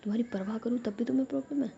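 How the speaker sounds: mildly annoyed. Acted. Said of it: "जिया ना थोड़ा गुस्से में हो जाती है".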